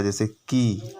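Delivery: की said short and sharp, with a jerk; short clipped की. Shown as a demonstration. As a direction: give की a quick clipped vowel. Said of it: "थोड़ा इसको झटके में पढ़ा जाता है".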